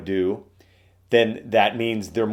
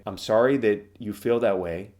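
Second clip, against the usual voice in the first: calm and sympathetic. Shown as a demonstration. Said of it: "speaking very calmly, softly, acting sympathetic".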